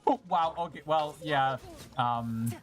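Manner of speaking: ordinary talk, nothing marked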